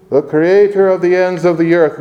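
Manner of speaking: Creator slowed and weighted; stress on Creator. Shown as a demonstration. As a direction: draw out the Creator. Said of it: "underline that word".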